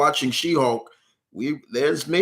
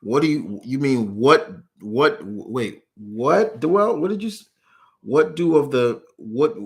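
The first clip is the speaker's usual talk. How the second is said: stammered, baffled what-what, pitch jumping up; real confusion. Real, not acted. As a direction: trip over words in sudden disbelief. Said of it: "I'm flabbergasted now".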